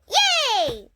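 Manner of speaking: high loud cheer. A narrator's reading. Girls cheering after chasing the boy off, high loud. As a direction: celebrate the win out loud. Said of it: "we shouted".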